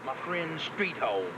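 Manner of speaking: low, gruff mule character. Acted.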